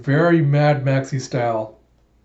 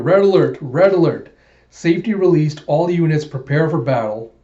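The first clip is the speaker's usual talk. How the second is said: alarm announcement; 2 semitones higher, 4 dB louder than usual. Acted. Train alarm warns all units, loud blaring announcement. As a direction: blast it like a ship's klaxon voice.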